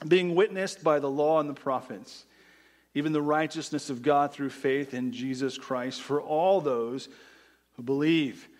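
measured, declaiming scripture read to the congregation. Acted. Preacher reading Romans aloud to his congregation, steady and declaiming.

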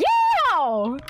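a loud, high whoop of delight; cheer. Real, not acted. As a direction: whoop over the whiskey. Cheering over the whiskey.

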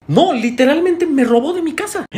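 loud, high, emphatic protest; exasperated outburst. Acted. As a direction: spell it out at full volume, fed up. Exasperated final correction.

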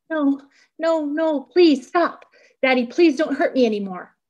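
put-on high, pleading little-child voice; tiny baby voice. A narrator's reading. Collapsed mother pleads with Daddy, in a baby voice. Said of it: "It was a tiny lisping voice, a baby voice".

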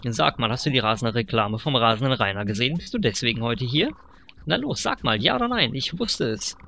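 lightly voiced pushy dealer, rising on the pitch; sly salesman. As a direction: sell it like a slick huckster. (leicht gespielter, schmieriger Händler)

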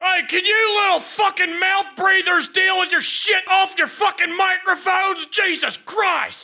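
irate shouted tirade; angry ranting. Pretend. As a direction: rant angrily at the other players.

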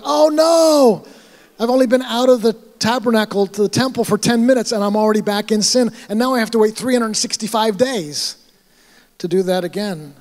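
Oh no, back in sin already; mock dismay. Worshipper realizing he's sinned again, in loud mock dismay. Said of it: "and you go like".

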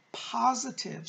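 positive given weight and drawn out, falling at the end; stress on positive. Retold or imitated. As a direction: lean on the word positive, then let it fall. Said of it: "emphasizes the word positive".

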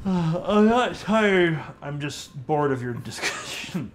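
slow, sighing deadpan; bored sigh. Pretend. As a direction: drag it out, bored stiff.

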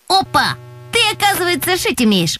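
pleasantly taken aback; surprised. A narrator's reading. Anton discovers the girl can sew, surprised. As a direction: pitch leaps up, then drops, in mild surprise. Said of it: "удивился Антон".

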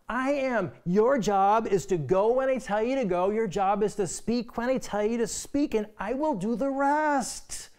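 playing a fed-up God; acted exasperation. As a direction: plead with a stubborn underling, out of patience. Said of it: "God gives an exasperated sigh. Okay? He goes".

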